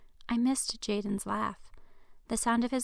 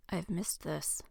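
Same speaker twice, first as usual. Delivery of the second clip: whispered, intimate; soft confession; 3 semitones lower, 5 dB quieter, slower than usual. Acted. Jaden confessing to Linnea beside him, whispered. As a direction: breathe it to her softly. Tender confession during movie night.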